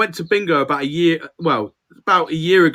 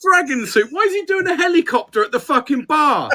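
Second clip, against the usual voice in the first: laughing; 10 semitones higher than usual. Real, not acted. Joking about bar antics.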